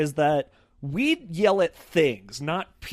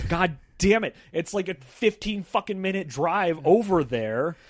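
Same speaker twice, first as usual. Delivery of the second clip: higher, exasperated griping; retold pissed-off rant; 3 semitones higher than usual. Son punching the steering wheel on the drive back, retold pissed-off rant. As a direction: replay a driver's angry complaint. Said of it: "really fucking pissed".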